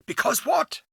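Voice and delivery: pressing him impatiently; asked quickly. Acted. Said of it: "I asked quickly".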